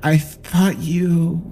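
a dead son asking why; creepy child voice. Acted. Possessed son accusing father.

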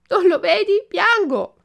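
high, loud crying reply; tearful retort. Acted. Puppet answering the pigeon through tears, loud high retort. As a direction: snap back through tears. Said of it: "disse Pinocchio".

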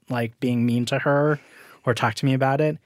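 usual speaking voice

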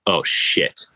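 breathy unvoiced "oh, shit"; whispered curse. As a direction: mutter it under your breath. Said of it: "And I'm like".

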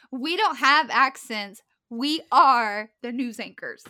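slow, loud mock proclamation; playfully insistent, every word punched; emphatic declaration. Mock-insisting after being laughed at.

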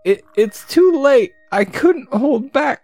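hammed-up high rodent voice; squeaky rat. The rat's line.

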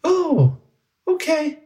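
very high-pitched little goblin; high little creature voice. Acted. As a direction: squeak it as a small goblin. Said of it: "He says".

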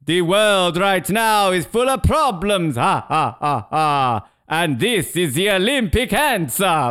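lightly voiced solemn official; hint of a grand speech; mock Thomas Bach. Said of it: "It's like".

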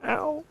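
pained ow. Real, not acted. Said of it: "my head is throbbing".

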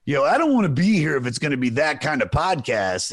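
mildly imitated affronted rocker; offended rocker. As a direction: a rock singer balking at the joke, lightly voiced. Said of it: "fucking this singer goes".

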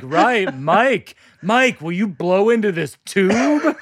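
slow, lightly voiced spaced-out reply; stoned receptionist. Stoned front desk worker asking a patient to take a test, slow and hazy.

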